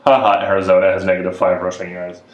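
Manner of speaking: shouts out the sports score; real excited shout at the game; excited outburst. Real, not acted. Reading a football score to the chat, a sudden excited shout.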